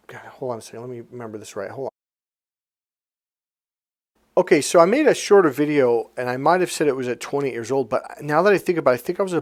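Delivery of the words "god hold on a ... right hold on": much softer, under the breath; muttering to himself. Real, not acted. Speaker pauses to remember the story right, muttering to himself. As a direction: think aloud in a near-whisper. Thinking aloud, trying to remember.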